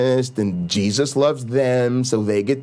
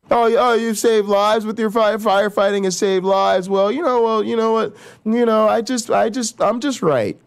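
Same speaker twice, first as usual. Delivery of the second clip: mock smug know-it-all; 5 semitones higher than usual.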